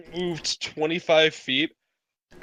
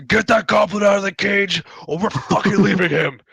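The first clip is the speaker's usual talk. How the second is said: higher-pitched yelled order; in-character yell; 5 semitones higher, 4 dB louder than usual. Acted. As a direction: yell it out to the party. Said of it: "Okay, I yell out".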